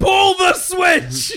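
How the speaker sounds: high, slow, loud shout; shouted command. Acted. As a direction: yell the order across the room. Shouted game call.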